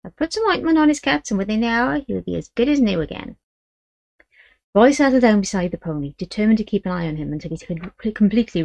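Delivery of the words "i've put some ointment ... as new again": put-on a suspicious old gypsy great-grandmother; old gypsy woman.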